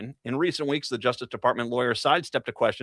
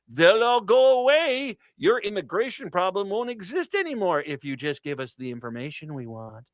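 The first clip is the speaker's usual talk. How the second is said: mock bully's offer; 5 semitones higher than usual. Mocking the administration's pitch.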